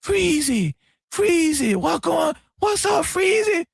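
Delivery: high-pitched whiny phone caller; mock whining. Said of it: "he was whining".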